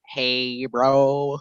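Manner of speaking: mock Southern drawl; Southern accent. Teasing a friend from Texas, mock Southern accent. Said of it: "Troy's Southern accent".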